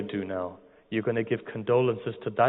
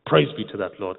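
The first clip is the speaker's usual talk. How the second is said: louder, full-voiced repeat of the praise; 5 dB louder than usual. Professor's praise swelling, louder on the third. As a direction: ring it out the third time. Professor retells reading the book.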